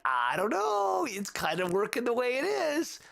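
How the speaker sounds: a light imitation of a hesitant listener; mild mock hesitation. Imagined reaction to the music.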